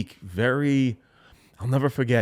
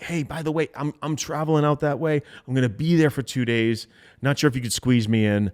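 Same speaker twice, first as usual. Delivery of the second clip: casual urgency tone. Shown as a demonstration. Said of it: "casual urgency tone".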